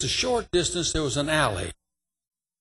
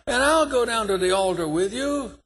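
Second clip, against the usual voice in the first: fervent promise; 6 semitones higher than usual. Retold or imitated. Preacher promising to stand by him.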